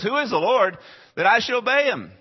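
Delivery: high, loud haughty king; defiant Pharaoh. Retold or imitated. Pharaoh scornfully answering Moses and Aaron, haughty. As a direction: sneer it like a proud king.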